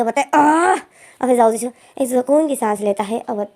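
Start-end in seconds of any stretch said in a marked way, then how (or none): 0.3-0.8 short, louder exasperated groan; frustrated groan. Acted. Losing control with Pam, a frustrated groan. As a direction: let the frustration burst out. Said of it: "अपने आप को control नहीं करता है".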